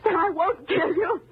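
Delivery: high-pitched, tearful threat; overwrought, rising challenge; desperate challenge. Acted. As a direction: dare him to doubt you. Challenges him over her threat.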